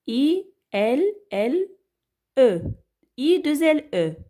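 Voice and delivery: name each letter of "I L L E" separately; spelled out. Shown as a demonstration. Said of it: "ça s'écrit avec". (épeler "I L L E" lettre par lettre)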